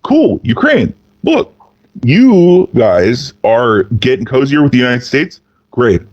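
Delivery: a hint of a sly Russian official sweet-talking; lightly voiced Russian schemer. Russia sweet-talking Ukraine about secret business, lightly voiced friendly scheming. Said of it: "the thing to do if you're Russia is go".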